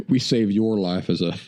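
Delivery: breaking into laughter while talking; laughing. Real, not acted. Storyteller joking about saving his friend's life, laughing. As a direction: chuckle through the words.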